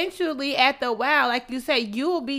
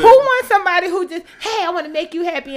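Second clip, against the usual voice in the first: laughing mock; 5 semitones higher, 8 dB louder than usual. Real, not acted. Laughing while mocking.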